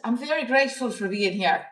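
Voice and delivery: London attempt slipping into Irish; a poor London accent that lands as Irish; accidental Irish accent. Shown as a demonstration. Retrying the London guy's line, badly faked accent sounding Irish. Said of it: "That's an Irish accent".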